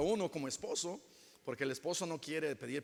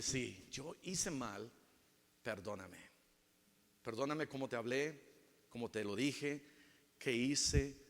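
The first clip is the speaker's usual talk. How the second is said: much softer, contrite plea; humble apology; 6 semitones lower, 8 dB quieter than usual. Retold or imitated. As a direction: apologise quietly and sincerely.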